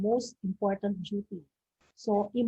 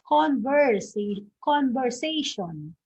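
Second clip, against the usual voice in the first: converSAtion, stress on SA, slow; third-syllable stress; 3 semitones higher, slower than usual. Shown as a demonstration. Teacher giving the right option, conversation stressed on SA. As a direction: say conversation slowly with the weight on SA. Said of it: "the stress is in the third syllable".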